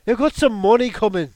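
thug voice. Pretend. Mock gangster threat.

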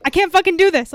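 high, loud laughing wail; retold freakout. On the phone to Emily mid-run, a loud laughing wail. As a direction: belt out the panic, half laughing. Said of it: "I was like".

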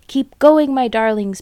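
high, loud breathless urging; panting urge. A narrator's reading. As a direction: push his family on, out of breath. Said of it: "panted Mister Fox".

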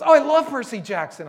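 mock teen girl gushing about a book; excited teen girl. Girl telling the pastor her favorite books, high excited teen voice.

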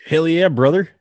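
loud, high mock wrestler roar; Hulk Hogan catchphrase. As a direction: bellow it like a pro wrestler hyping the crowd.

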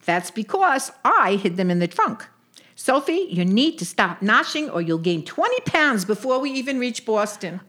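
lightly voiced Jewish aunt; scolding old Brooklyn lady; yiddish accent. Sadie scolds Sophie.

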